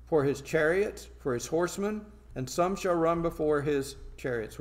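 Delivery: scripture reading. Acted. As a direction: proclaim the verse with weight on key words. Reads scripture aloud.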